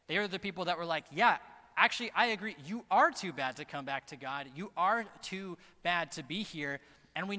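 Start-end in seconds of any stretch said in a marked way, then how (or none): 1.1-6.8 a touch of a scolding Pharisee agreeing; mock Pharisee. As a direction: play the smug judge lightly. Voicing Pharisees condemning sinners.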